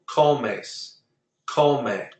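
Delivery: Comes and come stressed on CO; second-to-last stress. Shown as a demonstration. Teacher listing Comes and come, each stressed on CO. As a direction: lean on the first syllable, CO-mes, CO-me. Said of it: "second to last syllable".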